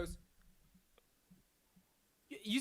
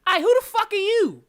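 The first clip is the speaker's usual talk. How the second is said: sudden high, loud "who the fuck"; incredulous yell; 13 semitones higher, 11 dB louder than usual. Acted. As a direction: shout it at the intruder. Bandleader snaps at stranger.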